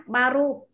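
"baru" with a voiced, unaspirated b; plain b. Shown as a demonstration. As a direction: set "baru" apart from "paru". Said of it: "các bạn đọc là ba".

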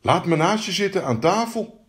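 high frog request. Acted. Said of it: "zei de kikker".

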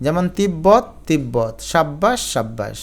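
তিব্বত and সাব্বাস with a held double b; both b's sounded. Shown as a demonstration. Teacher showing double b, তিব্বত as "tib-bot". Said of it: "দুইটা বকেই উচ্চারিত করতে হবে".

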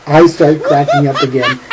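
laughing while telling it; amused at your own joke; chuckling. Real, not acted. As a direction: let real chuckles break into the words. Chuckles recalling his own joke.

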